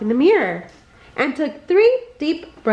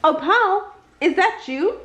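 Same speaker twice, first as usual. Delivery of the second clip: less grouchy; 6 semitones higher than usual. Acted. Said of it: "now sounding much less grouchy".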